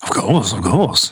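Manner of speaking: put-on slow, drawn-out Black Country accent. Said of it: "cue my generic black country accent".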